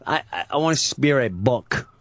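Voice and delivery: lightly voiced creepy mobster neighbor; a hint of the Godfather creep, stammering; imitating the pizza guy. Pizza guy insisting on his request, lightly imitated creep voice. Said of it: "he talks like this".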